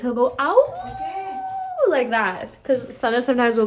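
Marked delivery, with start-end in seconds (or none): 0.4-1.8 high howling imitation of the dog. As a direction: howl it out like a lonely dog. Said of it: "he, like, howls".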